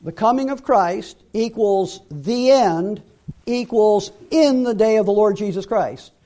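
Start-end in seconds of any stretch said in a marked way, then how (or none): 3.5-6.1 "in" set out firmly as the key word; stress on IN. Shown as a demonstration. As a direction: lean hard on "in", then fall away to the end. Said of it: "I emphasize the word in".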